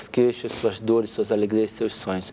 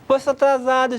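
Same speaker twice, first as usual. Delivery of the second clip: higher, exasperated complaint; impatient wife scolding; 8 semitones higher, faster than usual. Retold or imitated. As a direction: snap at a late husband. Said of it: "ela não vai ter paciência". (esposa impaciente reclamando do atraso)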